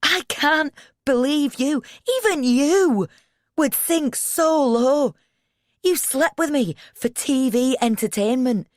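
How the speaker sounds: very high, loud, hurt screaming; anguished shout. A narrator's reading. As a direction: scream it out, wounded and furious. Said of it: "He's spraying angry spittle".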